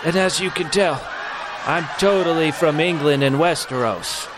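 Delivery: mock English accent. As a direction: overdo a posh English accent to prove the point. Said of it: "very smooth accent".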